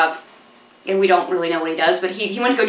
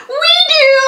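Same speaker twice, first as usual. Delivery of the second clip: eager exclamation; 6 dB louder than usual. Retold or imitated. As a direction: shoot way up high and loud, bursting with eagerness. Quoting eager heroine in movie.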